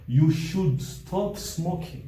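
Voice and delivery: slow, deliberate reading of the example; slow example sentence. Shown as a demonstration. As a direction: spell it out slowly for the class. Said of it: "Here we have".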